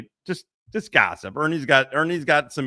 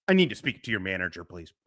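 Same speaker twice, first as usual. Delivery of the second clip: Karen voice; 5 semitones lower, 3 dB quieter, faster than usual. Retold or imitated. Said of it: "it's Charlie Brown teacher".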